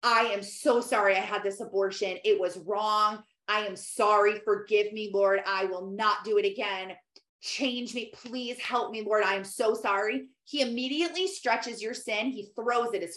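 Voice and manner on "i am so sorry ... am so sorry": humble prayer. Shown as a demonstration. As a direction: pray it like a sorry child. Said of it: "After you confess and say".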